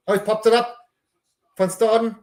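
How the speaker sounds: excited call. Real, not acted. Fan calling a rugby offload live, thrilled. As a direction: catch the pop pass with a jolt.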